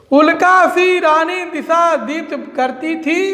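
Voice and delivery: measured, drawn-out poem recital; verse recitation. Acted. Teacher reciting Kaikeyi's verses to students, verse recitation. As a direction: recite each verse line deliberately, with pauses.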